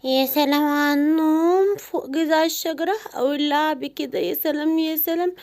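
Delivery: a sleepy jungle animal sighing over its nap; lazy dreamy animal. Acted. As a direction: savour it like a lazy ape on a branch.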